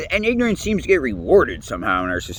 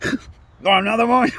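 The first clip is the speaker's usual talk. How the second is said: mock surprised woman; 8 semitones higher than usual. Mocking the woman's reaction.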